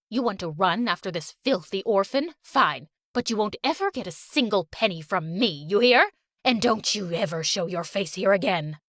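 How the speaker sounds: put-on low, cold scolding old woman; angry old grandma. Fake grandma scolding Valerie, low and cold. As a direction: demand obedience with contempt.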